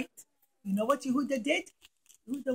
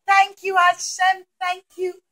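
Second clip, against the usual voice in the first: grateful; 6 semitones higher, 8 dB louder than usual. Acted. People thank God.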